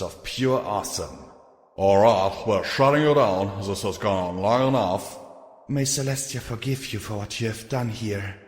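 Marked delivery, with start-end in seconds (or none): 1.8-5.2 loud, commanding raid call. Acted. Marauders storm in to shut down. 5.7-8.4 a touch of solemn grave intoning; intoned gravely. Acted. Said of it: "Psalm intoned gravely".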